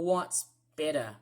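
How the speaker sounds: "better" the Australian way, falling; easy Australian-accented "what's better?"; Australian pronunciation. Shown as a demonstration. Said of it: "in Australia, I say the word better".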